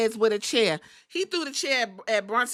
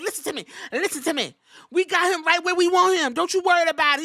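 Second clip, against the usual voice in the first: imitating Seth; 6 semitones higher, 4 dB louder, faster than usual. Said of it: "He was like".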